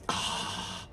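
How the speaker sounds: real, breathy groan of frustration; low-volume exasperated "ah". Real, not acted. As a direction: groan wordlessly, fed up. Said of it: "it enrages me so much".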